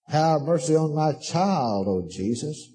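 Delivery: slow, low earnest plea; corrected plea. Retold or imitated. Preacher showing how she should have prayed, slow and low. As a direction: beg slowly for the child, dropping away. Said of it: "Why don't you pray for them?".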